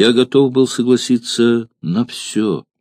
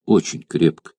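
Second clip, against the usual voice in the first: tender mother; 3 semitones lower, 3 dB quieter than usual. Acted. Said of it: "стараясь удержать свои слёзы".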